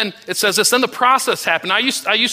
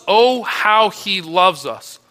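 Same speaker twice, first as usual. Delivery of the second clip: slow marvel; much slower than usual. Real, not acted. Preacher marveling slowly at God's love. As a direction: stretch it out slowly in wonder.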